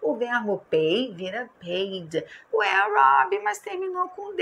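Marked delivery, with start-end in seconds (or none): 2.5-4.4 much higher-pitched pupil objection; puzzled student voice. Pretend. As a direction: play a confused student challenging the teacher, pitched right up.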